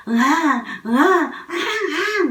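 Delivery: high, loud wailing like a newborn; mock infant wail, slow; baby crying. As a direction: imitate a baby's cry, drawn out. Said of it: "막 이렇게 울면 그 애기 말을 따라하는 거죠".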